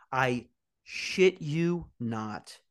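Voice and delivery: very slow, stretched-out oath; drawn-out emphasis. Real, not acted. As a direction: drag out every word for effect. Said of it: "And I shit you not".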